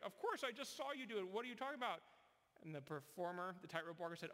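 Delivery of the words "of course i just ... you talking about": higher, scoffing of-course tone; dismissive promoter. Retold or imitated. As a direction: brush off the question.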